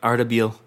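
Ardabil said carefully as Ar-da-BEEL; careful Persian place name; careful pronunciation. Shown as a demonstration. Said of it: "Did you actually look up how to pronounce it".

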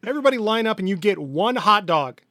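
loud, high, commanding rant; exasperated King Dedede. Acted. King seizing hot dogs to ration them, exasperated. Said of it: "King D D D is like".

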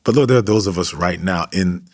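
earnest, steady prayer voice; fervent pastoral prayer; closing prayer. Acted. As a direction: pray over the listeners.

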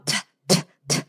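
unvoiced spitting t sounds. Swarmed by mosquitoes, spitting them away with t sounds. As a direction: spit out little t puffs at mosquitoes. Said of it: "like, spitting them away".

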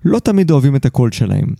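measured, articulate host's monologue; scripted podcast narration. Acted. Host opens the episode for listeners, scripted narration. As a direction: read it as a polished podcast essay.

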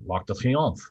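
L'Arc de Triomphe said the French way; French pronunciation. Shown as a demonstration. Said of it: "impossible for me to see the Arch of Triumph".

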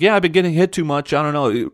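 high, loud mocking impression of a shrugging athlete; exaggerated mock complaint; mock Russell Wilson. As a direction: send up a quarterback who shrugs it off. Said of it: "the first paragraph is just like".

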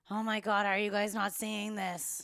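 acting out an alarmed plea to blind friends; frantic disbelief. Retelling own frantic rabbit-hole outburst.

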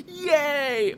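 high, sarcastic little cheer; mock cheer. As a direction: squeal a fake-happy yay. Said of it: "we were supposed to go".

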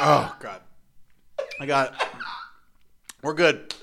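recovering from a spit take; nearly spitting out a drink. Real, not acted. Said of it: "you're almost spitting out already".

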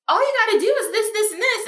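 high, fast, matter-of-fact; lighthearted it's so simple; breezy easy answer. Retold or imitated. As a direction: toss it off like it's obvious. Retold breezy mentor advice.

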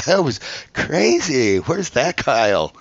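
high, loud, drawn-out excitement; gushing producer. Retold or imitated. Producer who saw his casting video, gushing excitedly. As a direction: imitate a thrilled producer, stretching the words.

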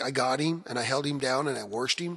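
local American-sounding accent, lightly put on; American small-town accent. Shown as a demonstration. Musician showing how hometown locals talked, American-sounding accent. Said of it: "really American accent there that's really funny".

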